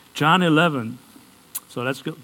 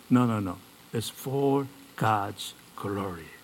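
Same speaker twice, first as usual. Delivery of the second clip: lightly acted, low and soft; a quiet, lower answer that slows down; calm reassurance; 3 semitones lower, 5 dB quieter than usual. Jesus answering his confused disciples, calmly reassuring.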